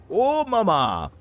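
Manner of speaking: slow, high, loud drawn-out "oh mama"; exclaiming. Real, not acted. Streamer reacting to the game with a slow, high, loud outburst. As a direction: let the amazement stretch out.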